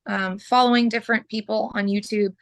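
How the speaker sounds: hoarse, clearing her throat. Real, not acted. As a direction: push through a scratchy, hoarse throat. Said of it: "I am just losing my voice".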